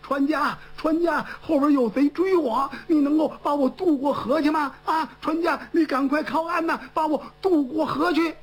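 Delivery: calling boatman. Acted. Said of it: "他冲那个船夫喊".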